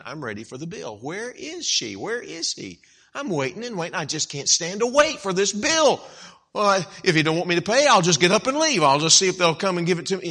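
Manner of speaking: grumble, then work up to an indignant threat to leave; imitated entitled customer losing patience; impatient complaining. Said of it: "I'm complaining about things like that".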